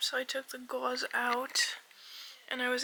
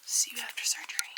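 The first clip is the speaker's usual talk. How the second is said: whispering; faster than usual. Real, not acted.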